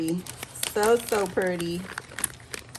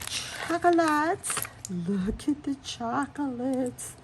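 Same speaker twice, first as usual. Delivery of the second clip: delighted gush; 6 semitones higher, slower than usual. Real, not acted. Unboxing gush over chocolates.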